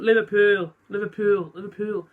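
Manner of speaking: testing out Scouse, word by word; half-hearted Scouse practice; attempted Scouse accent. Impressionist rehearsing a city's name, attempted Scouse accent. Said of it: "doing the Scouse accent".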